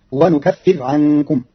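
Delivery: ونكفر with nun and silent ra, slow; Qalun reading. Shown as a demonstration. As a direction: say ونكفر as wa nukaffir with no vowel on the r. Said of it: "فتصير".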